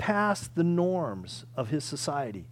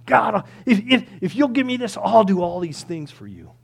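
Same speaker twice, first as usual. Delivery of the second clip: bargaining plea; 3 semitones higher, 7 dB louder than usual. Acted. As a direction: act out an insistent bargainer. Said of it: "we negotiate with him".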